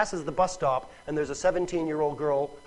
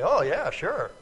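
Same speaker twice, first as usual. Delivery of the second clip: lightly sarcastic agreement; humoring the ridiculous. Acted. Listener answering a ridiculous offer, lightly sarcastic. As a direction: play along in mock belief. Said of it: "when somebody says something ridiculous".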